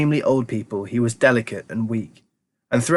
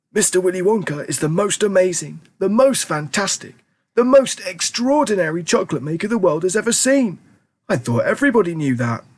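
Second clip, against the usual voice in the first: put-on fond old grandpa; 7 semitones higher than usual. A narrator's reading. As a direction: savour the words like an old grandpa. Grandpa Joe voiced.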